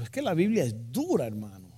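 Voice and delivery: playful Panamanian lilt, trailing low on "hermano"; Panamanian accent. Retold or imitated. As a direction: swoop up on "dura" in a Panamanian accent, then drop away. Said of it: "Un panameño me dijo".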